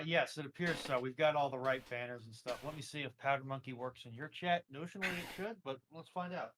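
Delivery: ordinary delivery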